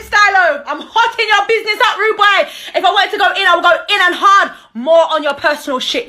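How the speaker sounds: high, loud laughing jeer; laughing taunt. Real, not acted. Taunting her ex on camera, high and laughing. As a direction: jeer at him through laughter.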